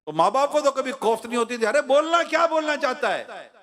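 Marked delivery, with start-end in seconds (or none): 1.6-3.5 put-on raised, coaxing call to a toddler; coaxing parent. Parent coaxing a small child who cannot talk yet, coaxing. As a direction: urge the little one to speak, patiently.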